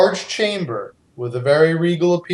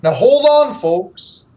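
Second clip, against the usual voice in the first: theme park host voice; 4 semitones higher than usual. Acted. Dwarf NPC theme park voice.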